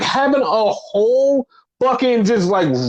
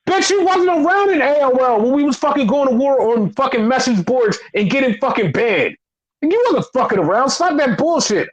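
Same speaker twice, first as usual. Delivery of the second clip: heated, higher-pitched telling-off; indignant retort; 4 semitones higher than usual. Real, not acted. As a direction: rant back at them, fed up. Indignant retort to imagined fans.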